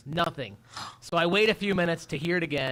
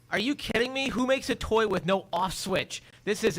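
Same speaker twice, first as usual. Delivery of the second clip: mock rant; 4 semitones higher than usual. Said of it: "I just go on this rant".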